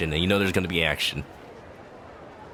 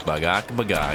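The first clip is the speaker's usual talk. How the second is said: mock chicken squawk; chicken clucking; 5 semitones lower than usual. Streamer playing at being a chicken, clucking. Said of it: "here's a chicken".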